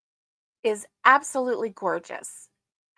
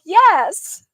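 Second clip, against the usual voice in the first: put-on eager little boy; 8 semitones higher, 9 dB louder than usual. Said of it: "He's like".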